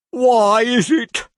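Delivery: high, very slow, swooning cry; lovesick old gentleman. A narrator's reading. Old gentleman wooing Mrs Nickleby, swooning. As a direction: croon it like a mad suitor.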